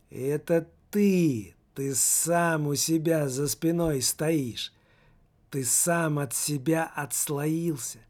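lightly voiced teen, slow and strange; slow eerie teenager. The teenager tells the soul of his mother's belief, slowly. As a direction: drag the words out like a strange boy. Teenager explains the detached self.

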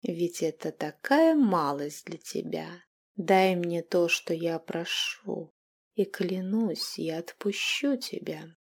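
slow, coaxing and gentle; soft, heartfelt. Acted. Vampire queen coaxing the captive, soft and heartfelt. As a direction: sweet-talk him into giving in. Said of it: "мягкие задушевные нотки".

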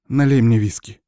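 mildly imperious order. Acted. Shaken witch demands a drink from him, firm order. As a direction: order it, don't ask. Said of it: "приказала она".

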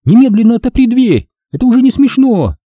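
high, loud furious demand; angry shout. A narrator's reading. Girl trapped in the storeroom shouts at Seth. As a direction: yell at him to open up.

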